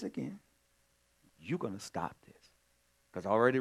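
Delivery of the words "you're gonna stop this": put-on soft, level warning to a child; quiet firm command. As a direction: say it low and firm, no yelling. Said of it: "I don't have to raise my voice".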